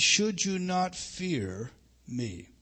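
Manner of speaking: slow question with "me" set apart after a pause; stress on me. Shown as a demonstration. Preacher showing the verse's emphasis is upon "me", slow, with "me" set apart. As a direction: draw it out, then land "me" alone. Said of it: "the emphasis is upon me".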